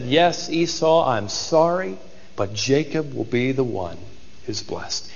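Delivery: a mild, sorrowful giving-in that fades away; resigned. Acted. Isaac apologizing to Esau, quietly resigned. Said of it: "Isaac finally resigned himself".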